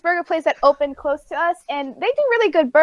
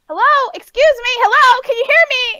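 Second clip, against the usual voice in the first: high, raised, insistent hellos; exasperated calling out; 8 semitones higher, 4 dB louder than usual. Retold or imitated. Customer acting out a failed phone call, exasperated calling out. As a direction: push each question down the phone line.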